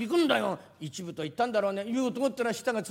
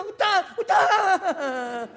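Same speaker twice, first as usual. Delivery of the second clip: gleeful laughing; 9 semitones higher, 7 dB louder, much slower than usual. Acted. Merchant eagerly closing the sale.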